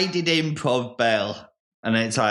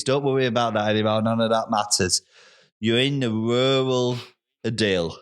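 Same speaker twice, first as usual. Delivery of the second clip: guided meditation. Acted. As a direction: talk him calmly into the countryside. Sets a calm rural scene.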